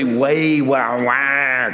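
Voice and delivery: slow, drawn-out mock wail; imitated wailing cry. Preacher imitates his granddaughter's real cry, mock wailing. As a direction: imitate a child's big cry in drawn-out wahs. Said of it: "not just one of those fake cries".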